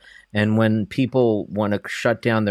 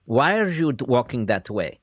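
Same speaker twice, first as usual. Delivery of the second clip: nagging mother; 2 semitones higher than usual. Retold or imitated. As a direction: scold like a disapproving mother. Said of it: "And I'll do my mother".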